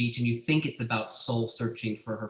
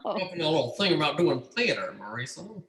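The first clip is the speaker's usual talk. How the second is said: mock persuasive; 6 semitones higher than usual. Teasing bribe to the guest.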